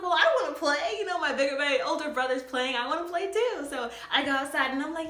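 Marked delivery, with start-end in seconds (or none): 0.0-3.7 put-on high, pleading little girl; whiny kid. Little girl begging mom to play outside, high whine. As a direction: beg to play.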